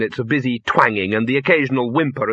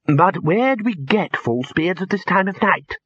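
higher, slowed doubtful question; 7 semitones higher, slower than usual. A narrator's reading. Wizard questioning the lecturer's plan, doubtful. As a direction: query it with real doubt. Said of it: "said a wizard doubtfully".

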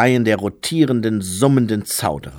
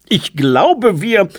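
higher, louder acolyte voice; pitched-up voice of a young monk; hesitant-to-finish acolyte; 11 semitones higher, 7 dB louder, slower than usual. A narrator's reading. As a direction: start up loudly, ready to be cut off.

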